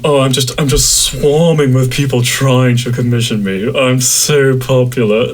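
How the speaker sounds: smug, stretching out so popular; mock boastful. Artist mocking how her closed commissions sound, smug brag. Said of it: "it sounds like I'm saying".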